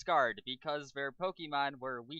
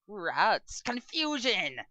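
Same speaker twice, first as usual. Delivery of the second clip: higher, louder battle command; commanding shout; 8 semitones higher, 6 dB louder, much slower than usual. Acted. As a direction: bark the move name at your Pokemon. Trainer commands attack.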